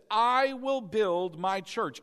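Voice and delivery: "I" stretched out at the front of a slow line; emphasized. Retold or imitated. Preacher quoting Jesus to the congregation, slow emphasis on "I". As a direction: lean long on "I", slowing the whole phrase. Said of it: "And I have emphasized this".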